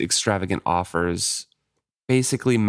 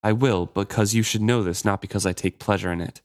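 expressionless. Acted. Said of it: "He kept all expression out of his voice".

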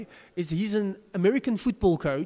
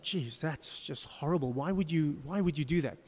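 hurt; 3 semitones lower, 5 dB quieter than usual. Retold or imitated. Ted hurt by confession.

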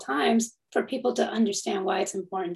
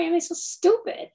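ordinary talk

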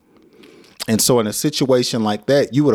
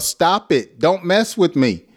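mock yell; 8 semitones higher than usual. Shown as a demonstration. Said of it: "You know, you may yell".

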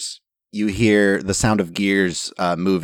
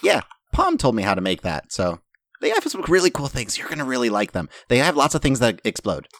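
lightly voiced, slightly raised character voice; Lorilla the gadget maker; 5 semitones higher, faster than usual. Lorilla tells players about exploding things, lightly voiced character. Game master plays Lorilla chatting.

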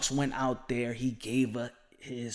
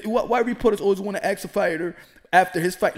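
ordinary talk

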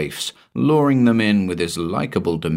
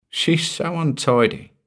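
mild chuckle; 9 semitones higher than usual. A narrator's reading. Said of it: "he chuckled to himself in mild frustration".

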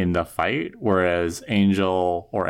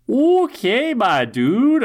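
high, drawn-out sarcastic okay; mock the idea with a sarcastic sigh; high, louder deadpan dude; 12 semitones higher, 4 dB louder, much slower than usual. Sarcastic reply to Angelus.

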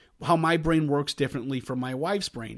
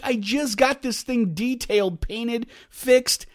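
higher and slower, mildly raised; exasperated; 6 semitones higher, slower than usual. Retold or imitated. Husband complaining about his freshly fixed car, mild exasperation. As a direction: spell out the damage in disbelief. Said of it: "And I'm like".

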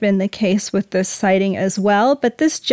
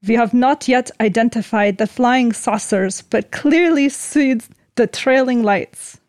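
light mock Russian accent; a hint of a Russian accent. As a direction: read it like a Russian general, lightly. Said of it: "let me do this in a Russian accent".

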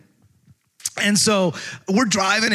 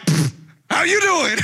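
mock casual greeting; 8 semitones higher, slower than usual. Acting himself greeting the officer.

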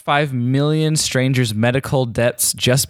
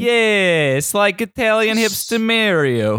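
hipster voice; 7 semitones higher, slower than usual. Pretend. Italian hipster character.

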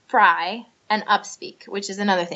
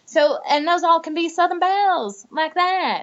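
Southern belle voice; 7 semitones higher than usual. Shown as a demonstration. Southern belle demo continues.

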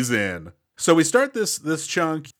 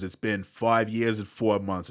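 mock Australian accent; 2 semitones lower, 4 dB quieter than usual. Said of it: "the worst display of his accent".

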